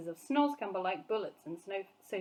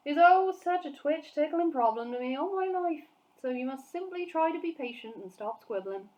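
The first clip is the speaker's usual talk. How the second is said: lightly voiced big friendly giant, rustic; a hint of a kindly giant grumbling; BFG voice; 5 semitones higher, 5 dB louder than usual. A narrator's reading. BFG lamenting words.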